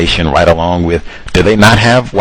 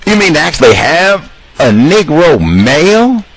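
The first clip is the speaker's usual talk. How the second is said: ordinary delivery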